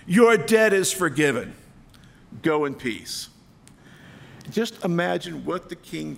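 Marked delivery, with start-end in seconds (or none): 0.1-3.3 joyful exclamation. Acted. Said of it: "and exclaimed".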